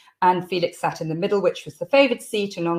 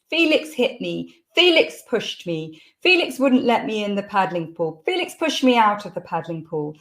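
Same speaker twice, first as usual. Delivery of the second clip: mock children's screams. Children telling on Felix to the parents, mock complaining. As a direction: imitate kids' complaints, mildly. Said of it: "We'd hear screams".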